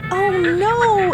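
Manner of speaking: ordinary talk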